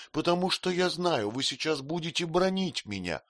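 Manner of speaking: high plaintive wail; plaintive cry. A narrator's reading. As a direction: whine it pitifully. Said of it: "жалобно воскликнула Дора". (жалобный возглас, голос выше)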